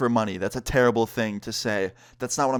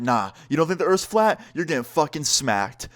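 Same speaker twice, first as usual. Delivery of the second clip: higher-pitched mock threat; retold combative threat; 4 semitones higher than usual. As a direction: act out an angry mom threatening a smack. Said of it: "she was not having the debate".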